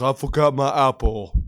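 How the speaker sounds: imitated thick Hispanic accent; Spanglish accent. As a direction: mimic the gunner's slurred Spanglish accent. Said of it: "still probably has that fucking accent".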